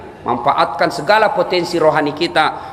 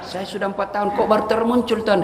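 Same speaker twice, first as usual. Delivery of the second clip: quiet reproach; 4 semitones higher, 5 dB quieter than usual. Acted. Inem repeats her reproach quietly.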